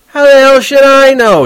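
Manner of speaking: sore shout. Acted. Horwitz snapping at Holden over the ducks. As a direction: snap it out, fed up. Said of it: "He was sore about it".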